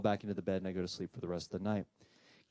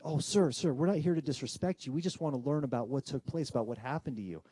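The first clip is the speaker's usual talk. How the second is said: higher-pitched, hasty appeasing plea; placating; 4 semitones higher than usual. Retold or imitated. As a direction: plead politely to calm someone angry. Placating an angry spirit.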